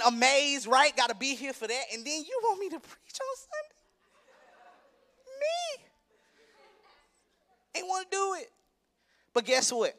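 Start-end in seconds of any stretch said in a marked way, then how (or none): 1.9-8.5 high, disbelieving laugh on "me?"; much higher, softer mock disbelief; incredulous laugh. Real, not acted. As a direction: laugh at the very idea of preaching. Tired preacher mocks being asked.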